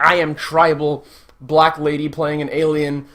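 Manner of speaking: hammed-up thick accent, barely speaking English; mock thick accent. Mocking Gamora's character in the first movie, mock thick accent. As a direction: lightly parody a halting foreign accent. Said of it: "this really thick accent".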